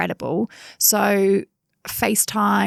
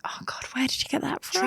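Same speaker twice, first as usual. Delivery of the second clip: fast, higher, whispered aside; a horrified little whisper to herself; shocked whisper; 7 semitones higher, 8 dB quieter, faster than usual. Retold or imitated. Inner reaction to daughter's phrase.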